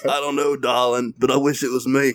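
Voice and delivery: lightly voiced Southern daddy; Southern accent with a faintly threatening edge; Big Daddy. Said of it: "you are Big Daddy".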